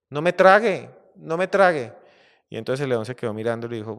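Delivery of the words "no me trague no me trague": mouse squeals higher and louder, pleading; panicked begging. Acted. Tiny mouse begs the lion not to swallow him, panicked. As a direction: beg for your life like a tiny mouse.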